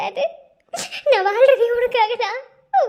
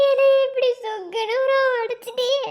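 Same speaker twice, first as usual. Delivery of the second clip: crying. Acted. Mother breaks down praying to Murugan.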